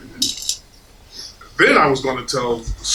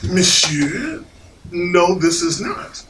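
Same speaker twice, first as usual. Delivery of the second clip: slow, measured objection; firm contradiction; slower than usual. Retold or imitated. Diner disputing the dessert with waiter, firm. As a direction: correct the waiter, firmly and slowly. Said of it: "And I said".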